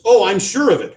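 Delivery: sour, biting sarcasm; bitter. A narrator's reading. Wife answering husband, bitter and sarcastic. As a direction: let the bitterness drip. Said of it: "Her voice is bitter".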